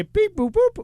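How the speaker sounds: spoken beeps climbing in pitch; high little beep-boop noises; imitated beeps. Co-host mimicking the start of his day at the controls, imitated beeps.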